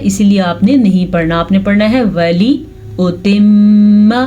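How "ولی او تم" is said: ولی او تم with clipped "li" and hummed m; don't stretch the li of ولی, hold the m; short lam, held ghunnah. Shown as a demonstration. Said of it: "لام کو نہیں کھینچیں گے". (ولی کا لام کھینچے بغیر)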